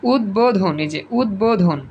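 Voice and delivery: উদ্বোধন as ud-bo-dhon; ব sounded. Shown as a demonstration. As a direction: clear b after d in উদ্বোধন. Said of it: "এই যে ব উচ্চারিত হইছে".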